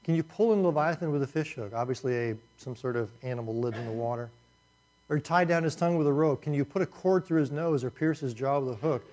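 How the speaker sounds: mildly sarcastic, rhetorical questions; sarcastic reading. Shown as a demonstration. Preacher reading God's questions to Job, lightly sarcastic. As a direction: read it with a light sarcastic edge. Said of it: "notice the, the sarcasm here".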